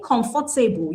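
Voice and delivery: "comfortable" said com-for-ta-ble, with a full FOR; four-syllable comfortable. Shown as a demonstration. Teacher showing how stress gets missed, "comfortable" as com-for-ta-ble. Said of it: "making it into four syllables".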